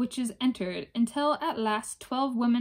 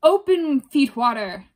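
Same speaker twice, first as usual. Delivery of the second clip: high, loud screamed summons; raging witches screaming at the door; 3 semitones higher, 9 dB louder than usual. Acted. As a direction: shriek Open! then bark the name Feetwater. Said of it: "they screamed".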